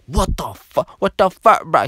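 high, loud outraged outburst; mock indignant yelp, rising on the repeat; hammed-up angry bro; imitating pissed-off friend. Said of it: "He was pissed".

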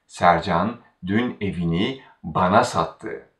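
bana made the focus before sattı; stress on bana. Shown as a demonstration. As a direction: put the weight on bana. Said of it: "Now we focus on bana".

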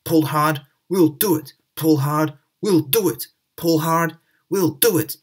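rhythmic, straining chant; puffing together. Acted. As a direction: chug it like engines working together. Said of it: "they puffed together".

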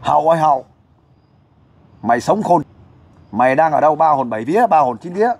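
firm calling-out, showing how it's done; demonstrated loud summons. Shown as a demonstration. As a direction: call out an absent person by name. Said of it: "bây giờ cô nói lớn tiếng lên". (gọi hồn to, dõng dạc)

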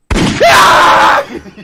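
high breathy laugh-scream; panicked laughing shriek. Real, not acted. (공포에 질린 웃음 비명)

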